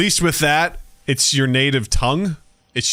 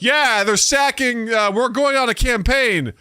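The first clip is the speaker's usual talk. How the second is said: mock English accent; 8 semitones higher than usual. Mocking English actors in a French film, English accent. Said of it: "like, you're English people".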